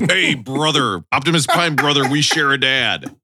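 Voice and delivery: lightly voiced wrestler greeting his brother; a hint of wrestling-star promo voice; Hulk Hogan. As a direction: do a light pro-wrestler impression. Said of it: "Optimus Prime and Hulk Hogan".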